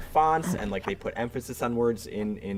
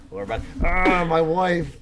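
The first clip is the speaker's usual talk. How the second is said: laughing; 9 semitones higher, 9 dB louder than usual. Pretend. Meme line through laughter.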